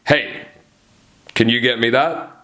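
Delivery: boss's measured request; teacher-like authority; authoritative. Shown as a demonstration. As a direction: ask it like a boss, with pauses. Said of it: "talk in a downward inflection".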